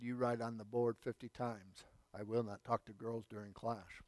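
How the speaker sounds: lightly voiced Indian teacher accent, stern order; a hint of a strict Indian teacher. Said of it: "he said".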